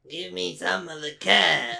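slow, drawn-out teasing echo; mock the line by stretching it; exaggerated copycat delivery; mimicking echo.

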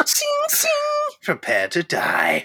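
hammy anime villain, threatening; booming echoing villain monologue. Pretend.

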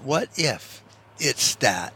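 quiet, slow wondering echo; slow musing repeat. Shown as a demonstration. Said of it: "So what if it's that?".

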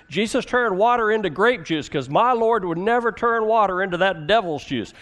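drawling Southern church voice; southern accent. Retold or imitated. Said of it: "You have to say it with a southern accent".

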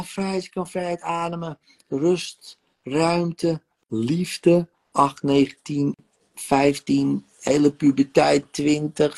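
guided meditation. Acted. Therapist guiding client through rebirth regression, calm meditation voice. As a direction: lead her gently back through her birth.

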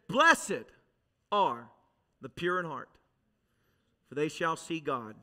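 hushed, reverent divine voice; voice of God. Retold or imitated. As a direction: deliver it like a solemn verse. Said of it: "the Lord spoke, and he said".

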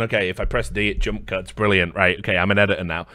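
low, soft, mock-proud voice, last words fast; a clueless rookie bragging under his breath; mocking the editor. Mocking the editor who thinks one button makes him an editor, low and soft. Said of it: "basically gone".

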